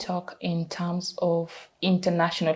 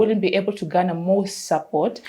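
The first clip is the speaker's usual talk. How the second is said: higher, louder plaintive wail, acted out; mock crying lament; 3 semitones higher, 5 dB louder than usual. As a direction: plead as if crying, half in earnest. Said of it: "then you start crying like".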